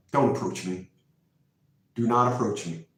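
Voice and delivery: low, soft, firm warning; the man telling the cologne seller to keep away, low and firm; quiet firm warning. Retold or imitated. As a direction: warn her off under your breath. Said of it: "repeats warning lower".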